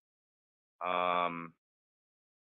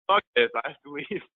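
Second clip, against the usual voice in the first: laughing; 9 semitones higher, 5 dB louder than usual. Real, not acted. Laughing while retelling her exit.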